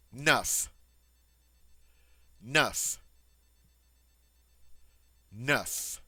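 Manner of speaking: neuf with the French eu vowel. Shown as a demonstration. Teacher modeling neuf for students, clear French. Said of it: "on dit".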